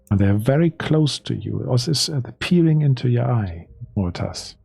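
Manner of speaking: measured, suspenseful scene setting; game master narration. Acted. Game master shows a player the looming figure, measured narration. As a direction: build the picture piece by piece.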